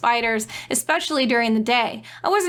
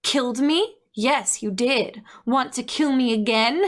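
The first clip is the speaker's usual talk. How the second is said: mirthless Snoke. Acted. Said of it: "grinning mirthlessly".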